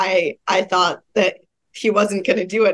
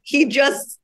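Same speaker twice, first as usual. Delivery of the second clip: laughing punchline; 6 semitones higher, slower than usual. Real, not acted. Punchline of her toenail story.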